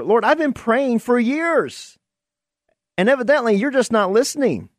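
lightly voiced impatient pray-er; mock complaining prayer. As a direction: play the fed-up believer griping at God.

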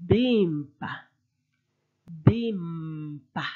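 Bimpa with a clear mp, falling; Chiluba Bimpa. Shown as a demonstration. Teacher models the mp in Bimpa. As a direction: say Bimpa twice. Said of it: "M with a consonant".

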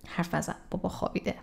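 soft unvoiced hush; hushed whisper. Shown as a demonstration. Teacher whispers an example so the sleeping dad stays asleep. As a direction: whisper it so dad won't wake.

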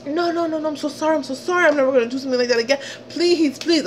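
high imitation of crying apology; mock tearful pleading. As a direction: imitate him begging on the edge of tears. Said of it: "this guy is fucking crying".

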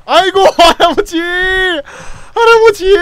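high, loud grieving cry; anguished wail. Real, not acted. Streamer crying out over the grandpa teammate's death, anguished wail.

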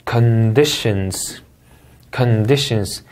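slow "Conditions" with stress on DI; two-syllable word. Shown as a demonstration. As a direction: read "Conditions" as two beats. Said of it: "이음절입니다". ("Conditions" 둘째 음절 강세)

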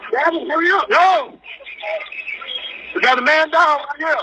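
urgent, high yelling for help; frantic shout across the scene; man down shout. Real, not acted. Caller yelling at shooting scene.

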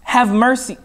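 high-pitched, restrained calling out; retold shout. Preacher voices Bartimaeus calling to Jesus, a restrained retold shout. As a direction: call out a plea, held back a little. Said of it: "he began to shout".

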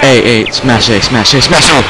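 frantic loud urging; being chased. Real, not acted. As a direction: shout it while mashing buttons. Button-mashing to escape a monster.

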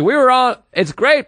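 high-pitched, imitated gushing; excited. Sweet lady explaining her phone calls, excited. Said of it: "I get excited".

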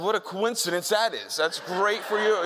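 mock politeness, slowed down; dismissive sarcasm, drawn out; sarcastic brush-off. Rude retort in retold story.

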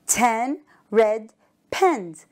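slow, each word spaced; slow model reading. Shown as a demonstration. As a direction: say it slowly for the class to repeat. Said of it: "Say it with me".

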